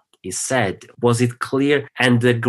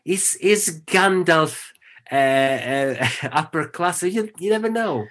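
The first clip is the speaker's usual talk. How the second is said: giggling through the words, voice pitched up; laughing; 5 semitones higher than usual. Real, not acted. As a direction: laugh it out, high and shaky. Giggling over Gandalf.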